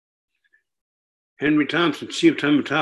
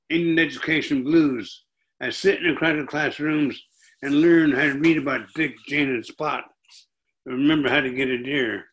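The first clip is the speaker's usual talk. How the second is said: steady rhythmic poem recital; poetry reading. Acted. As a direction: let the repeated lines ring out. Reads second poem aloud.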